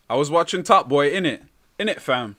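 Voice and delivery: put-on a London roadman accent; mock UK accent. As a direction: play up British slang. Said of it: "That's my U K accent".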